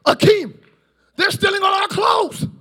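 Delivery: hammed-up alarm about stolen clothes; prince's servant crying out about stolen clothes, mock panic. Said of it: "When you know who you are".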